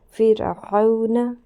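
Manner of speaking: فرعون drawn out very slowly, with a thin ر; slow Quran recitation. Shown as a demonstration. Teacher explaining the thin ر, slow recitation. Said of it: "تو را باریک ہوگی".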